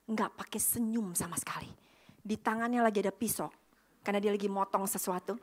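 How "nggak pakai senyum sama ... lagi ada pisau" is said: hushed ominous telling; whisper. Real, not acted. Describing the unsmiling chef, hushed whisper. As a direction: whisper it for suspense.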